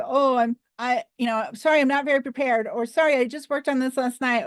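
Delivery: lightly voiced nervous speaker, quick and sheepish; mock apologetic speaker. Shown as a demonstration. Speaker apologizing at the start of a speech, lightly mocked and quick. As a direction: mumble a hurried excuse like an unprepared speaker. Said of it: "Don't say".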